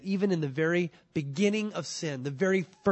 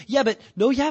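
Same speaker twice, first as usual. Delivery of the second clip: flustered excuse; 8 semitones higher, 9 dB louder than usual. Acted. Adam stammering an excuse.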